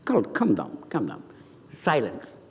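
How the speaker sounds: low, soft calming order; quiet command. Acted. Jesus in charge calms waves and storm, low soft command. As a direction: hush everything with quiet authority. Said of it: "everybody listened what he said".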